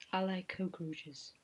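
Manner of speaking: slow sexy-scary voice. Pretend. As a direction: seductive but creepy, slowly. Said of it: "was it a cockroach speaking?".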